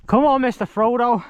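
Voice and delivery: high put-on hobbit voice, urging; Sam from Lord of the Rings. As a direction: coax him onward like a loyal hobbit.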